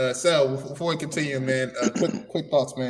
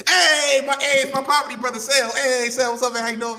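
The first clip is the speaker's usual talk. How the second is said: excited greeting; 6 semitones higher than usual. Real, not acted. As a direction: call out to him happily. Greeting friend joining call.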